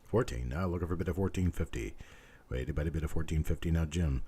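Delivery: rhythmic auctioneer bid calling. Acted. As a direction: keep the bids rolling like an auctioneer.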